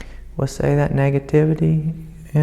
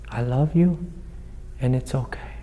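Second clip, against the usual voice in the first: tender self-talk; 6 dB quieter than usual. Shown as a demonstration. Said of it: "hold yourself with this sense of".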